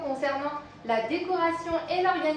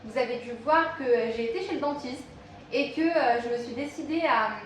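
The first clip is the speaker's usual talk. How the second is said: slight lisp from dental aligners; lisping on the s sounds. Real, not acted. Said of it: "si vous trouvez que je zozote un petit peu".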